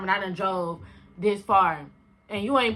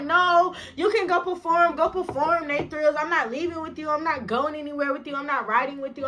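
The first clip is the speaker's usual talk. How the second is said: higher-pitched mock protest; stubborn refusal; 5 semitones higher than usual. Drunk girl refusing the ride, stubbornly protesting. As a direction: imitate an insistent drunk friend refusing.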